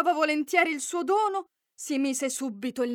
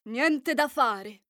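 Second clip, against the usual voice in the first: firm refusal; much slower than usual. Acted. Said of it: "rispose il principe deciso".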